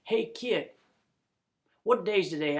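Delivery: calling down, pitched high; shout down. Acted. Jeb shouting down to a kitty in the road. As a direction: call down to the kid from the window. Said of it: "he shouts down".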